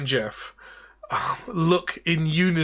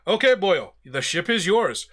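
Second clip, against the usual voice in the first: commanding ghost captain calling for recruits; captain addressing the defeated crew; Davy Jones. Acted. GM as Davy Jones, corrected accent.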